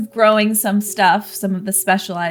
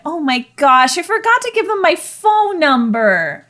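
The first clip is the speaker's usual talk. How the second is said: dismayed realization; 9 semitones higher than usual. Acted. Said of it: "slaps herself in the forehead".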